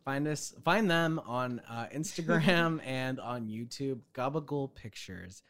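slow, hammed-up plug with a laugh; mock ad read. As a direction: plug the channel like a cheesy ad. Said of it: "do an ad read".

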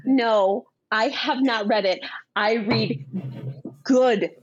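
self-mocking snobby put-down, measured with pauses; lightly hammed-up snobbery. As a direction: play at being a book snob, leaning on "good". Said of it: "this snobby bitch about it".

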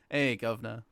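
put-on a faint, jokey British accent on the greeting. Podcaster jokes a half-hearted British accent for his cohost. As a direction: toss off a lazy mock-British hello, barely changed. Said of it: "I'll do a British accent".

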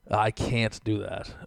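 slow, lightly mocking smug refusal. Customer mimicking the counter girl, slow and smug. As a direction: draw out the refusal, imitating smugness. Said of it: "just the smugness".

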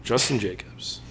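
hammy auctioneer calling bids. Pretend. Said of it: "me practicing my auctioneer voice".

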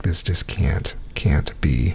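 half-whispered, stunned disbelief; softly retold shock at a real name. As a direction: murmur it as if you can't believe it. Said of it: "I was like".

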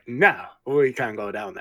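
slow, imitated French accent; imitating French accent. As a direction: mimic the host's French-accented Oliver, slowly. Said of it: "you do these voices for Oliver".

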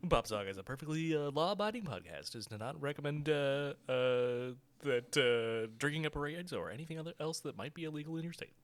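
rushed mock disclaimer, fast; fast legal disclaimer. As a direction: rattle it off like fine print.

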